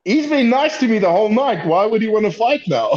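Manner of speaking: lightly confused thinking voice; puzzled inner thought. Retold or imitated. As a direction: wonder aloud, pitched well up. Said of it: "I'm like".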